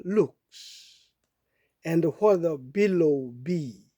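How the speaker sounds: very slow, measured English verse reading; poem recitation. Acted. Reading a Dickinson poem to listeners, slow recitation. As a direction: recite slowly, pausing between phrases.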